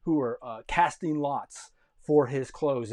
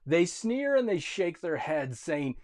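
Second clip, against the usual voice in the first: mocking; 3 semitones higher, 4 dB louder than usual. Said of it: "They're mocking him".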